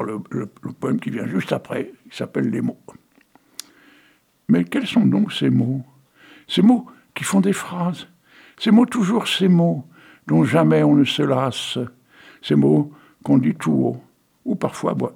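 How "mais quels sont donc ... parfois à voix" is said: measured, lilting recital of a poem; poem reading. Acted. Reads the poem Les mots.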